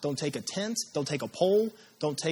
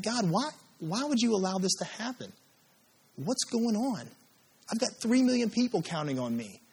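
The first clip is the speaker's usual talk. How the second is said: a complaint to God pitched higher; Joshua praying; 3 semitones higher than usual. Retold or imitated. Joshua complaining to God, pitched higher. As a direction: press God with rising frustration. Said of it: "what Joshua was kind of praying".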